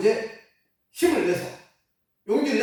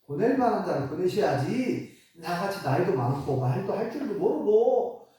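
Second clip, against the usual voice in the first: whiny excuse. Retold or imitated. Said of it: "또 핑계를 댑니다".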